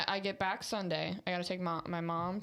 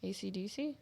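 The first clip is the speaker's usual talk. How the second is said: whispered guess; 4 dB quieter than usual. Pretend. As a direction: whisper it like a secret. Whispered answer in game.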